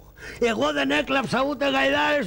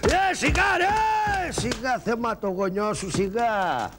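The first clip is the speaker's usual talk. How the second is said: mock pained plea; pleading yelp; slower than usual. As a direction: squeal then grumble. Begging during beating.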